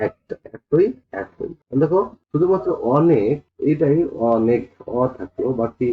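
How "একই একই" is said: একই একই drawn out slowly, pitched higher; slow pronunciation demo. Shown as a demonstration. Teacher repeating একই for students, slow and drawn out. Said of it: "তাহলে দেখো, একটা".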